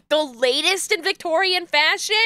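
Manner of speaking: can't believe what it says; amused disbelief at the words; incredulous. Real, not acted. Rereading the profile incredulously.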